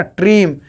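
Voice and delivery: ट्रीम said by itself, drawn out; stressed syllable alone. Shown as a demonstration. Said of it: "बोल रहे हैं ना". (ट्रीम को अलग से खींचकर, ज़ोर देकर)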